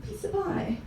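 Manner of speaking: soft, slow mock Chicago slang; Chicago slang accent. Locals saying pie in slang, mock Chicago accent. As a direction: draw it out quietly, imitating Chicago slang. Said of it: "the Chicago little slang thing".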